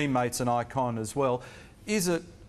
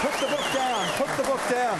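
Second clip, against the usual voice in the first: calling out; 12 semitones higher than usual. Real, not acted. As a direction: call out, playful and raised. Host calls out across the room.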